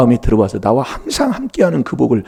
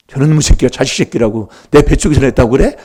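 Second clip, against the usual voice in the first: mock scolding; 4 dB louder than usual. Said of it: "막 그러면서 막 싸붙이기 시작하지요".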